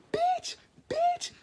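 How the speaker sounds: stunned high whisper; shocked whisper. Retold or imitated. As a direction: hiss it under your breath in disbelief. Shocked at the phone scene.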